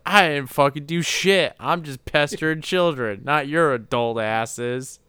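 hammed-up clown defending himself; mock Pennywise. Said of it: "He's like".

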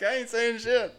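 high, mocking replay of his own defensive answer; mock defensive reply. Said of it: "I'm like".

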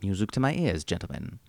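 lightly voiced genteel English author, unhurried; a hint of a polite old British gentleman plugging the show; Ian Fleming. Ian Fleming praising the podcast hosts to listeners, in a lightly voiced genteel British manner. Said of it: "Et vous, Monsieur Fleming?".

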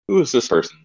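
put-on high, bewildered little kid; mock baby alarm at a stranger; startled child voice.

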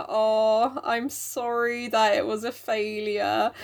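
drawn-out, sympathetic mum; slow consoling apology. Acted. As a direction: console gently and slowly.

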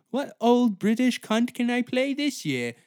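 high, loud pompous actress voice; a greedy star choosing her next queen; mock actress. Mocking the actress as she picks a role, high and loud.

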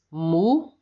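Música split into mu-si-ca, each syllable apart; teacher demo. Shown as a demonstration. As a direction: break Música into its three syllables. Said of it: "nós temos aí três sílabas".

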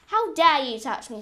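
loud, outraged demand; indignant scream. Acted. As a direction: shout it in outrage. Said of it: "screamed the Queen".

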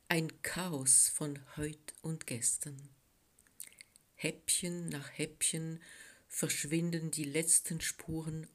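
hushed, contemplative verse reading; poetry reading. A narrator's reading. Author reads her first poem.

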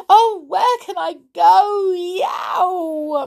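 loud, high, panicked meowing; meowing kitten. Acted. Trapped kitten finding door and window shut, meowing. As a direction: cry out like a trapped cat, very high. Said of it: "meowed poor Tiddles".

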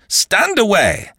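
André shouting at the countess to move; shouted command. Acted. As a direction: blast the order at her. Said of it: "more sternly".

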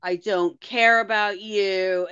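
slowed, cold mock-cruel man; lightly voiced heartless ex; a hint of the speaker's mean Duncan impression. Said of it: "the voice she does when she does Duncan being mean".

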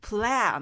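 プレア with a wide, strong American 'a' as in cat; American short-A sound. Shown as a demonstration. Teacher shows learners the American A, wide open vowel. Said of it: "プレアのところがアメリカンA".

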